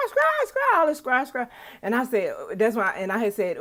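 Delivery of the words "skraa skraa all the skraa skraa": high, loud mock squawking; repeated loud squawks, jumping up in pitch; imitated bird squawks. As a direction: imitate a flock of screeching birds. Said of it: "I heard all the scratch".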